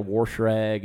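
"wash rag" with an R slipped into wash; Southern pronunciation. Shown as a demonstration. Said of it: "being from the Deep South".

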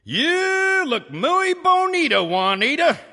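hammed-up Spanish accent, high and loud; flirty fake Spanish accent. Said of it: "James said in a fake Spanish accent".

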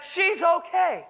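retold joyful shout. Man telling the hallway she's okay, joyful shout. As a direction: stretch it out like joyful news. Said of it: "he shouted".

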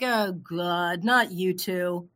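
slow, dragged-out groan of words; mock-dread, drawing it out; weary exasperation. Fed up with friend mentioning Shark Tank, exasperated. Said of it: "And I'm like".

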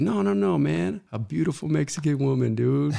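lightly voiced coworker, high and amused; a hint of the wise old hand joking around; imitating the coworker. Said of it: "He said".

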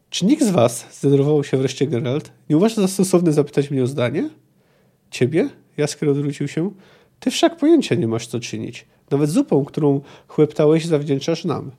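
expressive novel reading with lively dialogue; storyteller acting out the dialogue; story narration. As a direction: read the excerpt aloud, animating each quote. Reads a novel excerpt aloud.

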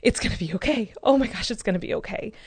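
mild, imitated wave of relief; understated relieved realization, retold without real tears; retold tearful relief. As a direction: reassure yourself as if it just dawned. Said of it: "it was, like, a relief cry".

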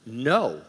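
a single, firm NO with weight on it; emphatic no. Retold or imitated. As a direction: voice God's emphatic refusal. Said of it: "God said emphatically".

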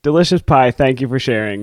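talking with food in mouth; chewing while talking. Real, not acted. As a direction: say it mid-bite. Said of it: "munching on that".

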